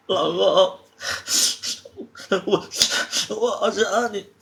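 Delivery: tearful, high-pitched longing; crying. Acted. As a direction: sob the words out between gasps. 你别哭了.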